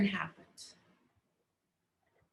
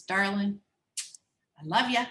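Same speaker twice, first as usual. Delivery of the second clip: tender life. Acted. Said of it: "puts his arm around the rock".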